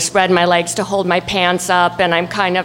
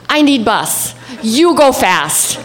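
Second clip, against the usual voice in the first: slow, halting broken words; broken phrasing; 3 semitones higher, slower than usual. Retold or imitated. Tourist begging a driver in halting broken words. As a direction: spell it out slowly to a stranger. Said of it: "in broken Spanish".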